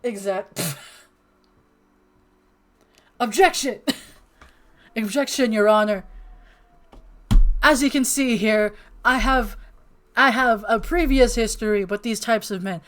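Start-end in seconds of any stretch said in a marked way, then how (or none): 3.2-12.8 loud, high mock objection speech; courtroom lawyer.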